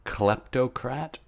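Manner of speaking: slow hushed whisper. Acted. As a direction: breathe it out slowly. Whispered title idea.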